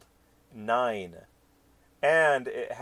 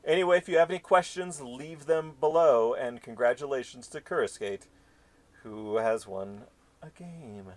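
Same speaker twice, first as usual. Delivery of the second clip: announcer voice; 3 semitones higher than usual. Acted. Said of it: "do you like my announcer voice?".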